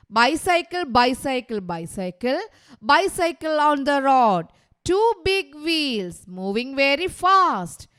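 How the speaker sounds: slow, rhythmic verse in separate lines; poem recital. Shown as a demonstration. Teacher modelling a bicycle poem for pupils, measured recital. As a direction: recite it emphatically, drawing out each line.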